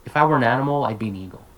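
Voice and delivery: "were an animal" linked into one word, unexaggerated; natural connected speech. Shown as a demonstration. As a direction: casually link "I'd be an eagle", dropping away at the end. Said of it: "just being super natural right now".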